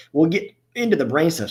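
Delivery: talking through the hiccups; words broken by a hiccup. Real, not acted. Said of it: "Sorry, I got the hiccups".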